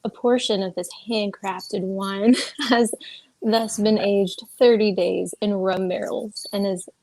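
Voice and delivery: slow, sultry reading voice; sexy voice. Pretend. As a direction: read it slow and seductive. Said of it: "I can try and get better into it".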